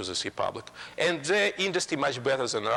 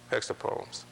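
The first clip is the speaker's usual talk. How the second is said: whispered echo; 5 dB quieter than usual. Real, not acted. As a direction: whisper the repeat under the breath. Repeats the phrase for emphasis.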